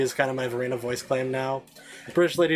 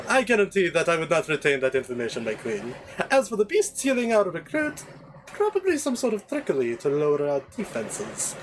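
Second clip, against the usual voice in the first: Jarvis; 3 semitones higher than usual. Acted. Servant explaining the enemy's trickery to his queen, pompous. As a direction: hold forth pompously to your queen.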